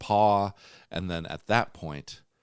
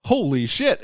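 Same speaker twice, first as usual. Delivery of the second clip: higher, louder exclamation; startled cry; shocked; 10 semitones higher, 7 dB louder than usual. Acted. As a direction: gasp out the shock. Sees horrible monster.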